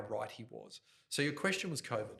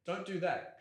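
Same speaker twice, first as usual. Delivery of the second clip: turned off-mic; 5 semitones higher than usual. Shown as a demonstration. Speaker coaching on lectern mics, off-axis. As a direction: voice dips away from the microphone. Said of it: "you'll notice my voice has dipped there".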